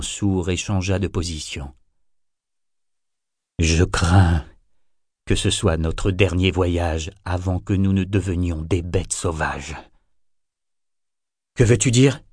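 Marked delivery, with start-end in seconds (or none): 3.6-9.8 low, weary serpent elder; low grave voice. Acted. Old serpent speaks gravely. 11.5-12.2 sharp, sudden and louder; abrupt question. Acted. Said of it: "demanda abruptement".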